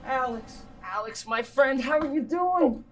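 effusive greeting in mock Italian-American accent; put-on Italian-American host; fake Italian accent. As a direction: greet an old pal in a phony Italian accent. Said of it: "Not stupid fake accent".

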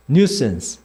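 nuisance said as NYOO-suhns, falling; English pronunciation demo. Shown as a demonstration. Teacher makes the class repeat, nuisance pronounced NYOO-suhns. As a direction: model nuisance with stress on the first syllable. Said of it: "자, 따라해봐".

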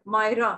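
"मायरा" split into two beats, माय-रा; syllable by syllable. Shown as a demonstration. Teacher counts syllables in her name, split in two. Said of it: "ये दो syllables हैं".

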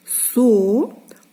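"Со-ро-ка" slow, with gaps between syllables. Shown as a demonstration. Teacher showing open syllables, "Со-ро-ка" in three drawn-out pieces. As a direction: hold each open syllable of "Со-ро-ка" separately. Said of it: "склади відкриті".

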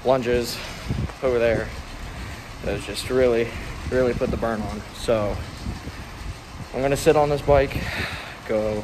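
muffled behind a mask; talking through a mask; through a face mask. Real, not acted. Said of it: "how well you can hear me through this mask".

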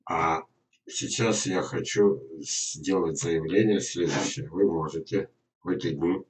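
ordinary talk, nothing marked

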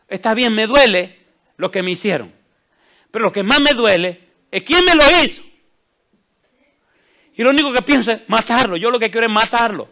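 acted hurt building to loud, high outrage; retold anguished outburst. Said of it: "Ese tipo lloraba y se estremecía".

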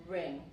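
"ring" with a sounded ng ending; teacher's model "ring", closing on ng; final G pronounced. Shown as a demonstration. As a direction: repeat "ring" for learners, keeping the final G. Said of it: "también la G se pronuncia".

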